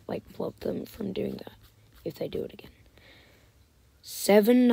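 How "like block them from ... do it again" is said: soft, hushed warning; whispered threat. Real, not acted. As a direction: murmur a quiet promise.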